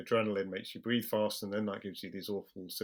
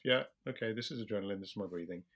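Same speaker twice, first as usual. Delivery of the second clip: calm self-reassurance; faster than usual. Retold or imitated. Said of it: "just reminding yourself".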